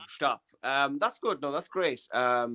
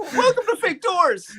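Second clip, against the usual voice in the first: ad announcer voice; slower than usual. Retold or imitated. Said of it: "fake doors in Rick and Morty".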